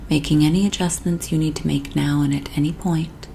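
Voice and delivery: soothing, unhurried hypnotist voice with long pauses; sleep hypnosis induction. Acted. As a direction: lull the listener gently down into sleep.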